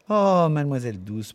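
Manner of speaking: high mock-shocked protest. Barmaid Miss Kennedy protesting at her friend, mock shocked. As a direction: pretend to be scandalised. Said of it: "protesta mademoiselle Kennedy".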